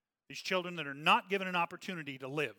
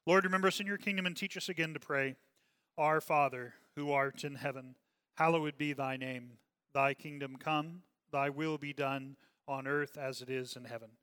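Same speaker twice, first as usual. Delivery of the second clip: steady spoken prayer, leading the room; congregational prayer. Acted. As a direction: pray it aloud with the congregation, unhurried. Leads congregation in Lord's Prayer.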